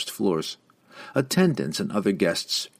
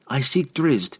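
higher, sharper reply; curt; 6 semitones higher, slower than usual. A narrator's reading. Young woman stating her quest to the lady, curt. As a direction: answer abruptly, sharper than intended. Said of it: "Canterbury answered curtly".

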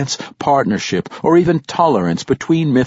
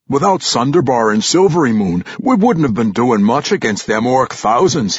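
put-on gruff old dwarf warrior; 3 semitones higher, 4 dB louder than usual. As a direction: scoff like a crusty old veteran. Old warrior Ragged Dane voiced.

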